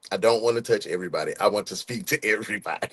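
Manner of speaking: rushed, words tumbling out; tongue racing ahead of the mind; too fast. Real, not acted. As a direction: rattle it off too quickly. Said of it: "I be moving too fast".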